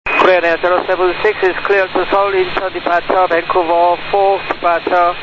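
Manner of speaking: Korean-accented pilot readback; pilot radio readback. Real, not acted. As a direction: read back the clearance in Korean-accented English. Korean pilot reads back clearance.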